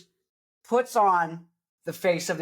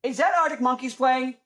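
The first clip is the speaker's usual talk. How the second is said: sudden realization; 8 semitones higher than usual. Retold or imitated. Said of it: "you're like".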